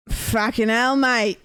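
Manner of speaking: put-on a light, lazy Australian accent. Australian accent, teasing her partner on stream. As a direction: toss it off in a mild Australian accent. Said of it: "He doesn't like when I do an Australian accent".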